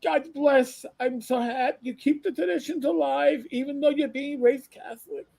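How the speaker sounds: approving old Jewish lady, accent imitated; old Jewish woman. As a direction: bless him in a high, put-on Yiddish voice. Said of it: "I got a God bless".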